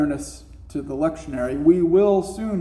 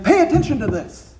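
loud exclamation; 8 semitones higher, 5 dB louder than usual. Pretend.

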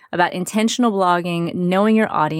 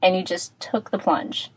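tin can sound. Real, not acted. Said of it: "so it sounds a bit like I'm in a tin can".

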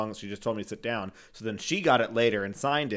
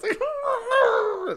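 laughing; 6 dB louder than usual. Real, not acted. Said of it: "like, crying".

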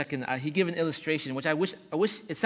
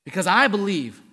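"I" hit loud, with a raised swell; stress on I; 4 semitones higher, 10 dB louder than usual. Acted. Preacher voicing a first-person answer about heaven, stress on I. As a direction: punch the word "I" hard.

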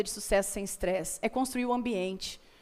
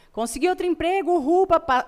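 excited cheer; 6 semitones higher, 5 dB louder than usual. Retold or imitated. Comemora o novo emprego.

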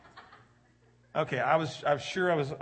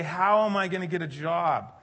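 worried questions building higher and louder; mock rising panic; 5 semitones higher, 5 dB louder than usual. Pastor imitating the congregation's anxious questions, building. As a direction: let the panic climb each question. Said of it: "And so we say".

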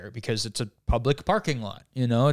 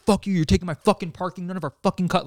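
retold yelling; 6 semitones higher, faster than usual. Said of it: "yelling at us".

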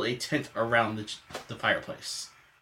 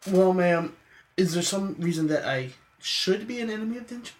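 lightly voiced courteous tradesman, higher pitched; polite tradesman; 6 semitones higher than usual. Tradesman asking ma'am about the contract, mildly concerned courtesy. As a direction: politely probe for a straight answer, pitched up.

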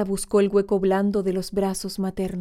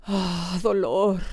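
un lamento que crece hasta el grito; exclamación fuerte; much slower than usual. Retold or imitated. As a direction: suelta el segundo dolor más fuerte y agudo. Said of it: "exclamó tan fuerte la viejecita". (la viejecita exclama dolor, cada vez más fuerte)

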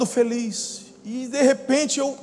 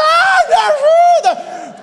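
very high, drawn-out scream; long, loud, hammed-up cry for help; 8 dB louder, much slower than usual. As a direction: wail for rescue at full volume. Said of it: "Eu comecei a gritar".

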